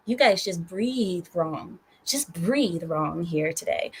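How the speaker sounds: mock menace. Streamer warning chat members in slow mock menace. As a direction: draw it out like a playful villain.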